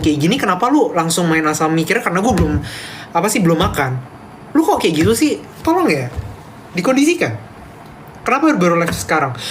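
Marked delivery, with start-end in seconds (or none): 4.6-7.4 mock grumbling. Playful grumbling at chat.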